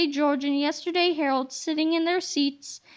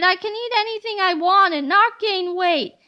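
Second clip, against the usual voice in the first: giddy delight; 4 semitones higher, 4 dB louder than usual. Acted. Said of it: "she cried".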